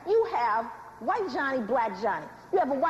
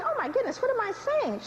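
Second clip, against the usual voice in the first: higher-pitched mock dismay; sudden realization; 5 semitones higher than usual. White mother remembering herself, mock dismay. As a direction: catch yourself mid-thought, pitch raised.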